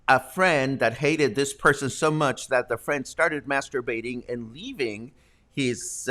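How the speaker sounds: ordinary talk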